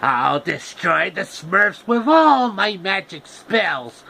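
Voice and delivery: high, slow gloating cartoon villain; hammy Smurf-hating villain. Villain threat in a story.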